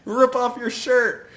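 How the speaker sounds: high, loud, drawn-out mock command; hammed-up cheerleader yell; excited urging. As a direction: egg her on, slow and shrieky. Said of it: "she goes".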